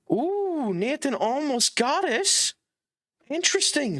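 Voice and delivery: high, eager near-miss cry; excited. Real, not acted. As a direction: gasp at the chance.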